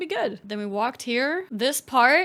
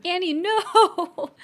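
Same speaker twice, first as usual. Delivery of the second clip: calling out; 5 semitones higher, 4 dB louder, much slower than usual. Real, not acted. Stops her pet.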